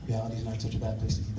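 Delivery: quick echo. Shown as a demonstration.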